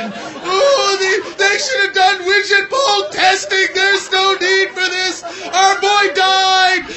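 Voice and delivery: high, loud, slow hammed-up sobbing wail; mock crying parents. Parents on Sixty Minutes, hammed-up sobbing plea. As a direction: wail it like grieving parents on TV, overdone. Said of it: "the parents are crying on Sixty Minutes".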